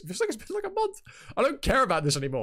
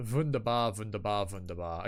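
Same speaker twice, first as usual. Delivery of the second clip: put-on light German accent, sinking lower with each word; 5 semitones lower than usual. Streamer pleased to be live, muttering in a playful German accent. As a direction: toss it off in mock German, fading away. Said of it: "what's with the German?".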